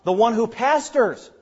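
"pastors" punched as the key word; stress on PASTORS. Shown as a demonstration. Preacher stressing the verb form, emphasis on "pastors". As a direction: land the weight on "pastors". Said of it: "The emphasis is on".

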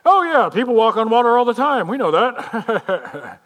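put-on gullible voice, ending in laughter; mock naive. Supposedly dumb ancient people on water-walking, mock naive. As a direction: start loud and breezy, then laugh it off.

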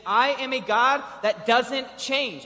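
booming declaration; preaching shout. Real, not acted. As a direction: proclaim it with full force.

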